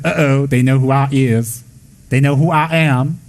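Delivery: a spirit realising it's been found out, drawn out slowly; caught-out spirit. Acted.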